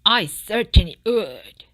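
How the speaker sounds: loud, eager declaration; declaring. Acted. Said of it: "the fox declared".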